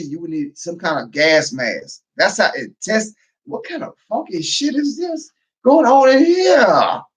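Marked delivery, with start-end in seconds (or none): 3.4-7.0 slow, loud, higher mock outraged yell; mock shout. Customer walking into a smelly store, mock shout. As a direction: bellow the disgust, hammed up.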